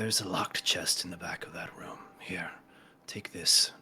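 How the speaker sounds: slightly hushed, subdued character voice; lightly voiced dejected captive. Dejected man giving Kelpie a key, subdued. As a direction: hand over the secret with quiet resignation.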